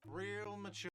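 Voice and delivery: high, nasal-free whine of mockery; whiny voice. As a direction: whine it out sarcastically. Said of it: "a whiny voice".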